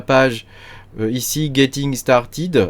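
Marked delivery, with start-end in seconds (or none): 1.5-2.7 Getting Started slowed way down with a French accent, every syllable spelled out; French-accented English, joking about his own accent; self-mocking French accent. Real, not acted. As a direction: read the English button name slowly in a thick French accent. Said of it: "avec mon super accent".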